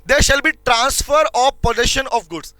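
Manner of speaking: words spaced out for note-taking; slow classroom dictation. Shown as a demonstration. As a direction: dictate it slowly for the class to copy. Teacher dictating notes.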